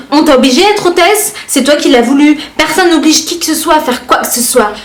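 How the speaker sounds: ton haut et piquant de commentatrice agacée; lis-le comme une critique sèche et hautaine; commentaire lu avec attitude. Retold or imitated. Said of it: "de la manière dont moi je les lis dans ma tête". (commentaire méchant lu avec attitude)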